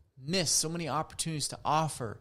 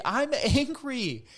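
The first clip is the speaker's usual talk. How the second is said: high, loud, slow declaration with a laugh; demonstrating that it's okay to say you're angry, loud and slow; saying I'm angry out loud; 8 semitones higher, 6 dB louder, slower than usual. Shown as a demonstration. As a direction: let it out loud and slowly, half laughing. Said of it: "It's okay to say".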